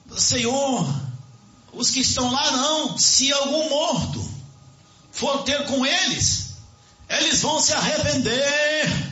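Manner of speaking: high, slow, insistent pleading tone.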